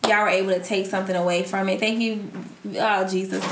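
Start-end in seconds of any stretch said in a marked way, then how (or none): 2.8-3.4 laughing. Real, not acted. Laughing fit.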